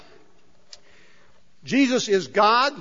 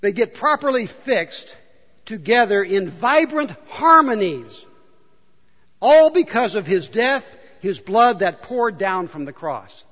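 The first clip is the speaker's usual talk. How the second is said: scripture reading; 3 dB louder than usual. Real, not acted. Reads paraphrase aloud.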